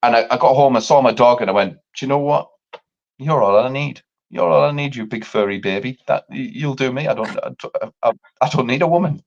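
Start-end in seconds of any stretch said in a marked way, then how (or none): 1.7-9.2 tender. Retold or imitated. Talking tenderly to his dog.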